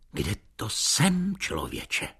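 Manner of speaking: bursting out at the waiter, demanding; energetic demand. Acted. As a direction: fire the question at the waiter. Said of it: "Spustím naň energicky".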